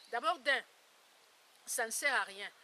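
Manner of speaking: loud, firm insistence; emphatic. Real, not acted. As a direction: hammer the point home. Emphatic point to audience.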